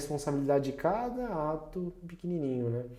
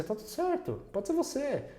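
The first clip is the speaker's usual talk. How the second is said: mock reassurance; 11 semitones higher than usual. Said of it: "Meio que assim".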